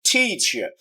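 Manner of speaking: টিচার with a distinct, stressed TEE; clear first syllable. Shown as a demonstration. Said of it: "ক্লিয়ারার first সিলেবলটা".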